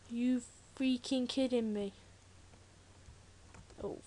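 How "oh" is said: exasperated whispered curse, slow. Real, not acted. Stranded gamer cursing softly in a whisper. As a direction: breathe the curse out under your breath.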